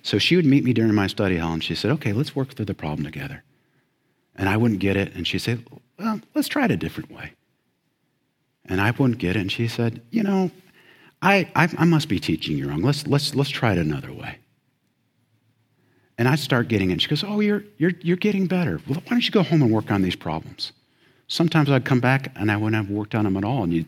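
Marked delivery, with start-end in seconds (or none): 1.9-3.4 softly voiced patient teacher; kindly teacher. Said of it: "She was kindly. She was gentle". 6.0-7.3 high, soft, quick encouragement; kindly teacher. Retold or imitated. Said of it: "She was kindly. She was gentle". 10.1-14.4 gentle imitation of a patient teacher; kindly teacher. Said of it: "She was kindly. She was gentle". 17.2-20.7 encouraging teacher, high at first; kindly teacher. Retold or imitated. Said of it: "She was kindly. She was gentle".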